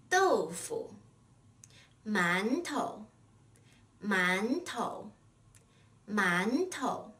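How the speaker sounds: 豆腐, 馒头, 学生 repeated with 腐, 头, 生 short and light; spaced-out drill of 豆腐, 馒头, 学生, weight on each first syllable; brief, soft neutral tone. Shown as a demonstration. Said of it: "which is pronounced briefly and softly".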